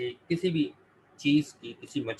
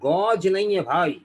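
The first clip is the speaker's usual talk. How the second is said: insistent correction; 5 semitones higher, 6 dB louder than usual. Real, not acted. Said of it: "teacher correcting insistently".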